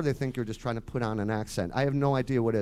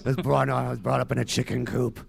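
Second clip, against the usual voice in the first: mock yokel answer; 2 semitones higher, 5 dB louder than usual. Mock terse interviewee joke.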